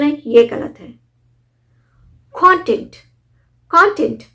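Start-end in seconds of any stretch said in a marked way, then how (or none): 2.3-4.2 कंटेंट as KON-tent, high punched first syllable; o sound, first stress. Shown as a demonstration. Teacher shows content as a noun, KON-tent for कंटेंट. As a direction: open कंटेंट with a stressed o, then fall. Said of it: "ओ sound".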